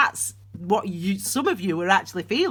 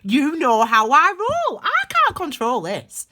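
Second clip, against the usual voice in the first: strong, uncontrolled emphasis; forceful outburst; 4 semitones higher, 6 dB louder than usual. Real, not acted. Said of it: "that is how it comes out".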